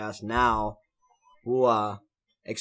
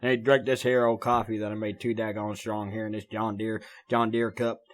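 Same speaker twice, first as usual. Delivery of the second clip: hammed-up hillbilly twang, lightly done; mock country twang. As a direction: play a good ol' boy with his strong coffee. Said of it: "get the twang out of my voice".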